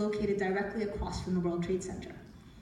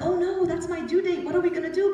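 higher and louder retold flustered "Oh no"; a little panicked; 8 semitones higher, 6 dB louder than usual. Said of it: "And I was a little panicked".

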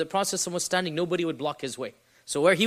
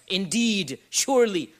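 INDEED and SURELY each punched out grandly; old-fashioned emphatic; 3 dB louder, slower than usual. Shown as a demonstration. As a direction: give "Indeed, surely." exaggerated, standalone weight. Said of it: "Nobody speaks like this anymore".

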